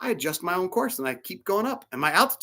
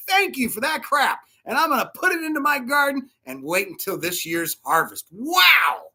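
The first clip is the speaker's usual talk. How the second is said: impassioned preaching; 6 semitones higher than usual. Real, not acted. Preacher's defiant rallying climax.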